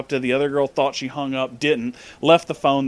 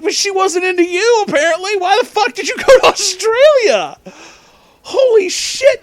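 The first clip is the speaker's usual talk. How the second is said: shrieking disbelief; 7 dB louder than usual. Retold or imitated. Retelling own shrieked reaction.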